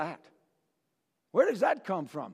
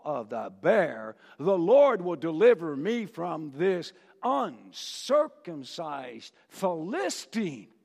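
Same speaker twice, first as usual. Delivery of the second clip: solemn faith; slower than usual. Acted. David's faith declaration.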